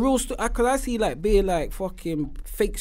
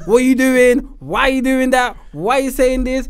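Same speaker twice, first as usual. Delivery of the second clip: raised, insistent mock scolding; imitated telling-off; 3 semitones higher, slower than usual. Podcaster voicing lifers moaning at him, imitated scolding. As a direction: scold like an irritated caller. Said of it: "I'm getting phone calls from the lifers".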